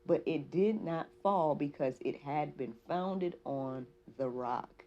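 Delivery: slow, deliberate Bible reading; scripture reading. Acted. Reading Matthew's wise builder to listeners, slow scripture delivery. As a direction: read it out word by word, measured.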